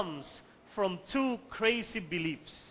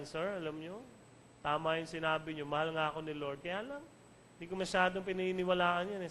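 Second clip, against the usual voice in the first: softly voiced, lower retelling of a confession; subdued student; 2 semitones lower, 5 dB quieter, faster than usual. Student confiding in teacher after class, subdued. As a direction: confide it quietly, a little hesitant.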